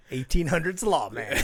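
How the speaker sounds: lightly imitated Old West lawman accent; a hint of Western twang. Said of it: "in this awesome, like, Western accent".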